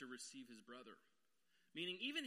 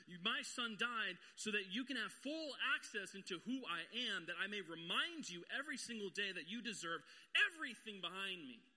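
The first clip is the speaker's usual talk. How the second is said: building God voice; 2 semitones higher, 5 dB louder than usual. Acted. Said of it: "He says".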